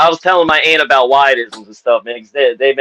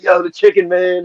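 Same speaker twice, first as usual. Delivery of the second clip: dad texting; 5 semitones higher than usual. Retold or imitated. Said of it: "texting me like".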